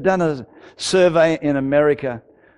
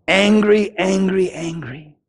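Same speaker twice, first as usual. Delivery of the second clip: starts raised, then sinks to almost nothing; fading angry repeat; 3 semitones higher, slower than usual. Retold or imitated. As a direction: let the anger drain out word by word. Repeats his old anger, fading.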